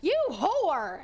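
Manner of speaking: mock angry outburst with a Southern tinge; pissed-off outburst. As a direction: throw it out as if really pissed. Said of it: "when I'm really pissed, I'll go".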